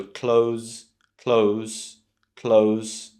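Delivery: "close" with long o and z, klohz; clothes like close. Shown as a demonstration. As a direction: repeat "close" evenly as a model. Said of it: "think about it like close".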